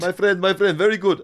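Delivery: high broken-English street-seller pitch; imitating a sunglasses hawker; mock street seller. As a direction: sell it like a beach hawker. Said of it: "sounds like a Lucky Lucky Man".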